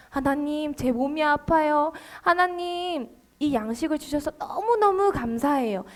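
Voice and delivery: soft, earnest pleading to God; earnest prayer. Shown as a demonstration. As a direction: pray softly, as if truly pleading. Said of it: "간절하게 기도하죠". (나직하고 간절한 기도)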